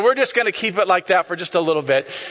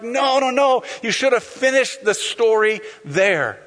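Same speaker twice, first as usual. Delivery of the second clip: mock protest; 4 semitones higher, slower than usual. Acts frustrated moviegoer.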